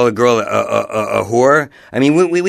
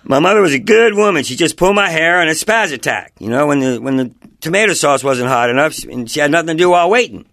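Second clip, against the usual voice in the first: put-on voice; 5 semitones higher than usual. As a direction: keep the goofy fake voice going. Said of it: "talking like this from now on".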